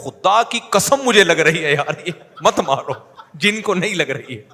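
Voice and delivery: loud, slow, pained plea with a laugh; desperate begging. Retold or imitated. Fake possessed man swearing to teacher it hurts, loud slow plea. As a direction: beg him to stop, swearing it hurts.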